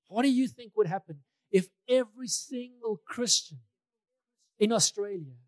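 imitating a preacher's challenge; emphatic posed question. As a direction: pose it big, as if to a crowd.

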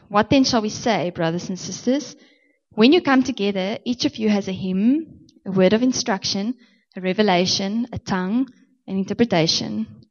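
deliberate scripture reading, item by item; reading slowly. Real, not acted. Preacher reading scripture to the church, deliberate and measured. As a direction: read it out measured, pausing between items. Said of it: "I'm gonna read it slowly".

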